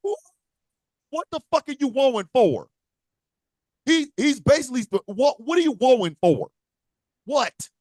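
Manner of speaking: mock exasperated wrestler. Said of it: "the first thing you're gonna hear".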